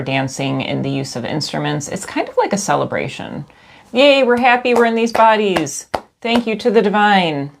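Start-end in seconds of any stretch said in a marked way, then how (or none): 3.9-7.5 higher, louder happy cheer; cheerful. Acted. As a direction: cheer it like a party. Mock celebration cheer.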